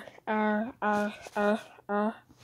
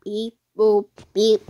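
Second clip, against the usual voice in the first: robot voice; 5 dB louder than usual. Acted. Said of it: "I am a robot".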